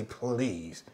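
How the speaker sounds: sudden high mock disdain; scornful dismissal. Jealous churchgoer scoffing at a woman, mocking disdain. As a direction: sneer it down at her. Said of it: "and I say".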